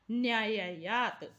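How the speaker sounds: न्यायायात slowly, each long 'aa' drawn out; careful pronunciation. Shown as a demonstration. Teacher repeating a difficult word for pupils, slow careful pronunciation of न्यायायात. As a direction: model न्यायायात slowly for learners. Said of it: "एक बार फिर से उच्चारण कर लेते हैं".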